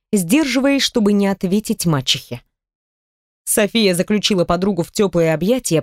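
ordinary delivery, nothing marked

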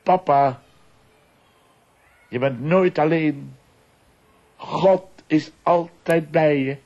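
high, loud call, slow at the end; a small boy calling across the yard. Retold or imitated. Naked son calls to his father from the tent, high and loud. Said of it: "en riep naar mij".

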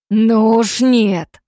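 very slow, loud snarl; furious growl. Acted. Damir refusing in fury, slow loud growl. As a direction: drag out the fury. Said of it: "с яростью в голосе прорычал Дамир".

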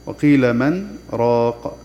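من with a short breathless stop before راق, very slow; recited with a brief pause. Shown as a demonstration. Teacher demonstrates the silent pause after من, very slow recitation. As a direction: pause lightly after من without taking breath. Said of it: "نسكت سكتة لطيفة بغير تنفس".

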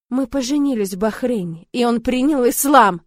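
loud insistent exclamation; exclaiming. A narrator's reading. Sister defending her husband to her brother, loud exclamation. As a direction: insist loudly, defending him. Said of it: "восклицаю я".

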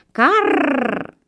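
high caw, long rolled r; crow's caw. A narrator's reading. Crow calls after the fleeing fox, high long caw. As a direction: imitate a crow with a trilled r. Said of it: "А ворона вдогонку".

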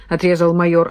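usual speaking voice

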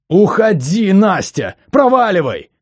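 voice breaking. Acted. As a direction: yell "Уходи" until the voice snaps. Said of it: "повторил срывающимся голосом".

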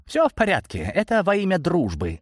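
high, battered martyr's voice; pathetic exhale. A narrator's reading. David lying by the stairs after the blow, exhaled pathos. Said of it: "выдохнул валяющийся возле лестницы Давид и пафосно".

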